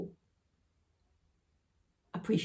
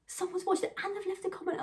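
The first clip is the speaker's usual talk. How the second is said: excited quote; 12 semitones higher than usual. Retold or imitated. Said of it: "I said".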